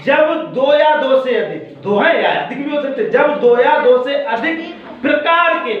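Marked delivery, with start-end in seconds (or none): 3.1-5.7 pause, then lean on प्रकार के; stress on प्रकार. Shown as a demonstration. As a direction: make प्रकार the key word, said deliberately. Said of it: "प्रकार बोल रहा हूँ, संख्या नहीं".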